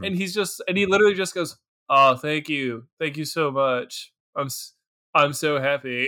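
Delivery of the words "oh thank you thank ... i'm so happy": flat, joyless, underwhelmed, deadpan tone. Retelling how a character thanked someone: imitating flat, unenthused thanks. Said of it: "You don't sound it. You sound pretty, like, whelmed".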